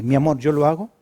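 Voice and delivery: gentle, affectionate offer to help; sweet loving reply. Shown as a demonstration. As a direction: say it kindly to your spouse. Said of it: "no es lo mismo decir".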